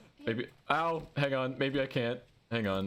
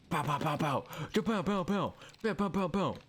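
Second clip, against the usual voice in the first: excited pow noises; 5 semitones higher than usual. Real, not acted. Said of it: "Sorry, I'm getting excited".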